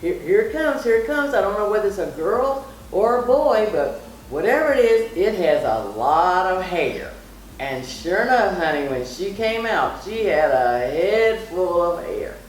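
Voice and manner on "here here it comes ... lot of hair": high, excited retelling of the nurse; mild mock delivery-room excitement. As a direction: imitate the nurse's rising excitement. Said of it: "was saying".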